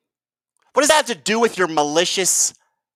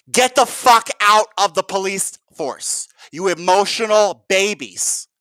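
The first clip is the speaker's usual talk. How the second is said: higher-pitched indignant imagined rebuke; scornful telling-off; 3 semitones higher than usual. Pretend. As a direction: tell them off with contempt, stretching the final insult. Imagined telling-off of the emotional cops.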